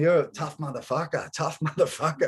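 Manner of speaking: jeering after him as he leaves; mocking taunt. Following the guy out of IGA, jeering. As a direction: chase him out with a taunt, laughing at him.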